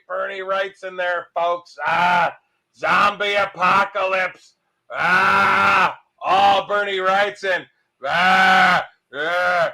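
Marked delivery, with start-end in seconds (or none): 1.9-9.7 groaning zombie growl, partly shouted. Pretend. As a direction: moan it out like a shambling zombie. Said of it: "How do you talk like a zombie? I don't know, but I'm trying".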